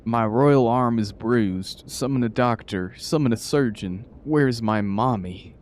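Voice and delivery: slow, hammed-up whiny royal complaint; a lightly voiced spoiled rat king. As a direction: ham up a pampered king crying for help. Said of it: "Reginald the Rat King".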